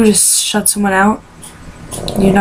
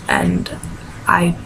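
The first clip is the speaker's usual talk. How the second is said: crying; 7 dB quieter, slower than usual. Real, not acted. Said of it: "me ranting and crying".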